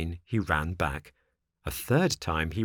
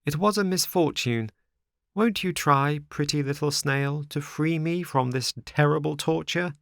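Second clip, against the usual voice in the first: high-pitched, plaintive puppet; pleading marionette; 7 semitones higher than usual. Acted. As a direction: beg sweetly to be freed. Trapped marionette pleads with snail.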